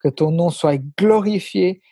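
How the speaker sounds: earnest spoken prayer in French. Acted. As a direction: pray it from the heart.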